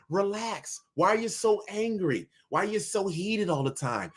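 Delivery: softly mocking "relax, don't be angry"; mock soothing. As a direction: mimic a patronizing voice telling him to calm down. Mocking the calm-down preachers.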